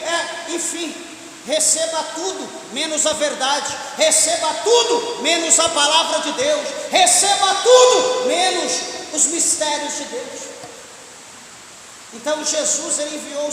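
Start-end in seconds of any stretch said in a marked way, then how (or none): 1.5-10.4 rising indignant preacher's cry; indignant repetition. Real, not acted. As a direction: build louder on each repeat. Indignant mock of prosperity preaching.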